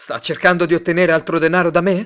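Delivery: very loud, high shouted outburst. A man who is told to stop making scenes answers back, shouting. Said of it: "gridò Simon".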